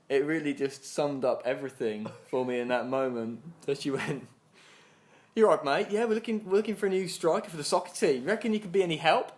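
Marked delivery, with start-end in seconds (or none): 5.3-9.3 high, chirpy salesperson patter; doorstep sales pitch. Retold or imitated. Asking a man at the door for a striker, sales patter. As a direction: pitch it brightly to a stranger.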